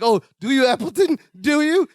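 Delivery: lightly voiced groveling sidekick; pleading sidekick. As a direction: beg him to have a plan. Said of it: "even Gorpus is like".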